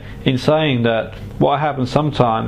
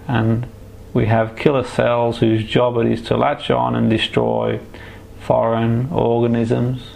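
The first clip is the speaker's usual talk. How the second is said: right in your ear. Acted. Hypnotherapist guiding a relaxation trance.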